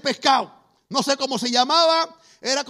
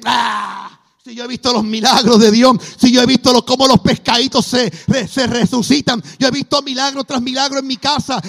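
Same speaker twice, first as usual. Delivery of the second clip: fervent outburst; 7 dB louder than usual. Retold or imitated. Son's crisis of faith resolved.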